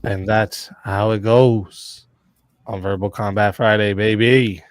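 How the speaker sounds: slow dramatic fight announcer. Acted. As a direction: draw out each phrase like a ring announcer. Host's dramatic show announcement.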